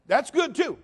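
loud, ringing preacher voice; full-force preaching. Acted. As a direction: preach it out to the congregation.

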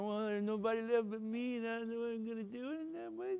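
soft, hushed, defeated voice; a hint of a broken prophet; quiet lament; despairing Elijah.

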